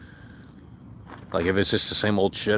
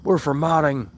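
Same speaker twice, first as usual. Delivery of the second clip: slow, higher sarcastic mimic of the other side; mock them in a slow, raised whiny voice; mocking impression; 5 semitones higher than usual. Streamer mocking chat's hypocrisy in a slow mimic. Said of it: "turning the tables like".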